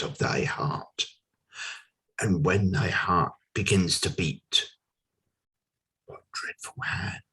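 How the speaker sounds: swelling questions, then hushed falls; theatrical verse reading with long pauses; dramatic poem recitation. Acted.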